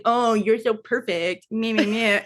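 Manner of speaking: slow, drawn-out mock praise; sing-song teasing imitation. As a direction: imitate someone jeering at a rival, ending in nonsense syllables. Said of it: "then mocking him in Russian".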